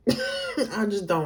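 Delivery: slow, laughing through it. Real, not acted. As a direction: drag it out with a laugh.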